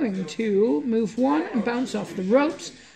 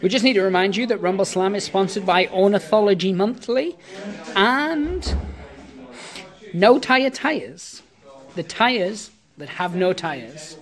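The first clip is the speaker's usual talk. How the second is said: mock announcer. Fake sponsor announcement.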